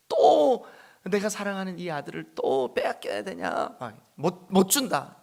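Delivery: mild mock anguish; pleading refusal. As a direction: refuse him with a breaking heart. Father refusing to send son.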